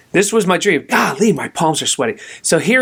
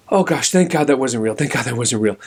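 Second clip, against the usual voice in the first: acted relief; 4 semitones lower than usual. Relief on waking from nightmare.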